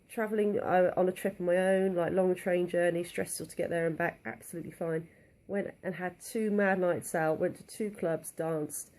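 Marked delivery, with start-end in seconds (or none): 5.5-8.9 slightly breathless, real; talking while short of breath. Real, not acted. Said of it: "bit out of breath now as well".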